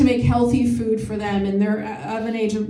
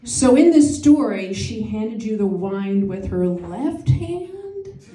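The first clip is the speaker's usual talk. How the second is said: detective questioning; 3 semitones higher than usual. Retold or imitated. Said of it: "I go in as a detective".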